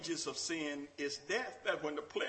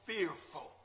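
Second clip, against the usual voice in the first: gentle question; 4 semitones higher, 7 dB quieter than usual. Acted. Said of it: "And the Lord said".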